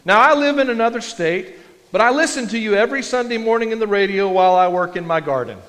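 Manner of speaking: an excited listener meeting his radio preacher; eager fan. Pretend. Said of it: "and they said".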